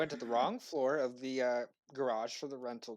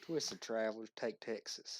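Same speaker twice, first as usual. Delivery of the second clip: slower, fuller Southern drawl; Southern accent; 5 dB quieter, slower than usual. Pretend. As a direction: lean into the Texan accent. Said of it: "Do it one more time. I wanna feel it".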